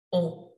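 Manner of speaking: "on" as a nasal O, nose pinched; nasal French "on" like bon. Shown as a demonstration. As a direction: round O pushed through the nose. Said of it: "you pinch your nose and it sounds like on".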